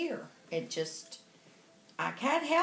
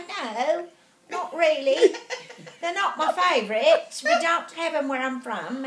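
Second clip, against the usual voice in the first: lightly put-on English accent; mimicked English accent; 3 dB louder than usual. Chatting to the lady from England over dinner, put-on English accent. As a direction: copy your seatmate's English accent. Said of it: "we're talking like this the whole time".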